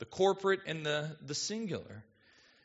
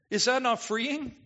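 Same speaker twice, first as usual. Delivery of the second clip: ordinary talk, nothing marked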